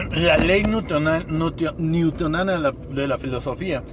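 talking with a mouth full; stumbling over words while chewing. Real, not acted. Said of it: "estoy comiendo algo y se me fue".

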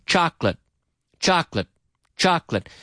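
CHOCOLATE repeated as CHOK-lit; two-syllable pronunciation. Shown as a demonstration. Teacher drilling another word for learners, two syllables. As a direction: drill chocolate without its middle vowel. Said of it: "talking about two-syllable words".

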